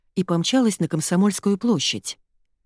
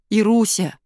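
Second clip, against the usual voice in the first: a desperate, louder wail of her name; wailing cry; 4 semitones higher, 4 dB louder than usual. A narrator's reading. Frightened Sasha wails to Ira, desperate cry. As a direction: howl it out in panic. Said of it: "взвыл Саша".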